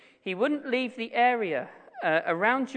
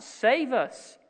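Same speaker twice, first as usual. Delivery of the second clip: raised, higher-pitched cry for help; retold crying out; 5 semitones higher, 4 dB louder than usual. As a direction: call out the psalmist's plea, measured. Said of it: "the psalmist cries out".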